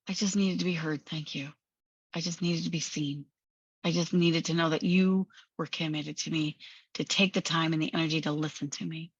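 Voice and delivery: calm, vulnerable inner voice; acted relieved sincerity. Angry part calmed, now heard.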